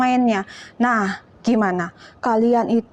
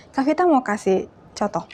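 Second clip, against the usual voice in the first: ordinary talk, nothing marked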